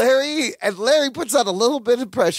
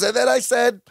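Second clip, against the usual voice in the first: sheepish Balky; 7 semitones higher than usual. Retold or imitated. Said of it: "Balky goes".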